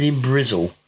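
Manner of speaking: put-on Bristol West Country accent on Brizzle. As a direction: say it like a Bristol local. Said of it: "I don't know what kind of accent that was that time".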